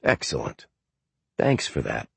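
low, soft, amused offhand thanks; bemused thanks. A narrator's reading. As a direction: Martin taking the painting, faintly amused. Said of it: "he said bemusedly".

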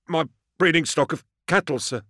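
high-pitched anxious farmer; meek, high character voice; nervous defendant. A narrator's reading. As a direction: offer the explanation in a high, timid voice.

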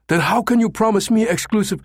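outraged, high-pitched protest; bellowed. A narrator's reading. Numataka challenging the American's promise, bellowing. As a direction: bellow the demand, indignant. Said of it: "Numataka bellowed".

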